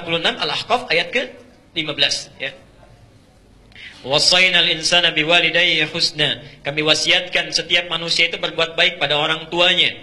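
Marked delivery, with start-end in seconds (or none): 4.0-6.4 chanted Arabic verse, louder; Quran recitation. Acted. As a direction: intone the verse like a qari.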